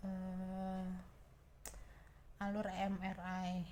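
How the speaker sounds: drowsy, slowed speech; sleepy. Real, not acted. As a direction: talk like you're nodding off. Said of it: "udah ngantuk banget ini".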